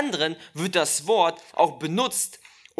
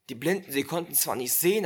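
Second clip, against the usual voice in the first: ordinary talk, nothing marked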